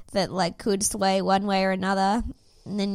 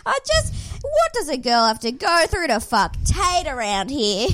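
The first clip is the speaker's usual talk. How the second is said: higher, a bit louder, hammed-up whining; mock exasperation; 5 semitones higher, 5 dB louder than usual. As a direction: play the put-upon girl, half-laughing. Mock complaint after laugh.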